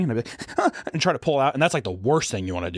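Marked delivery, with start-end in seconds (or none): 0.6-0.7 acted-out panicky gasp; hyperventilating gasp. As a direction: mimic a sharp, panicked intake of breath. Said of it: "I'd start hyperventilating".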